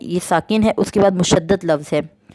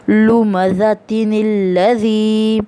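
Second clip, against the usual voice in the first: very slow, drawn-out Quranic recitation; 2 semitones higher, much slower than usual. Shown as a demonstration. Teacher reading the first example to students, slow drawn recitation. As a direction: stretch every vowel as in tajweed. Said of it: "next मिसाल दी गई है".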